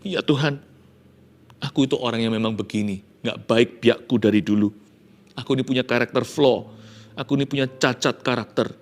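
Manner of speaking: leise, gedrückte Beichte; reuiges Bekenntnis. Acted. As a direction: gesteh es kleinlaut vor Gott. Jakob bekennt reuig vor Gott.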